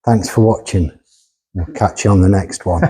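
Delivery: lightly put-on Geordie accent. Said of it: "In a Geordie accent".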